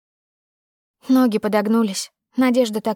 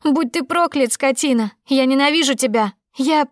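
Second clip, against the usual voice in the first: higher, rapid tearful curses; tearful shouting; 4 semitones higher than usual. Acted. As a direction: spit out hatred while crying. Heroine curses him sobbing.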